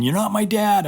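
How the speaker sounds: high-pitched mock kid's yell; mild mock shout, pitched high; imitated yelling.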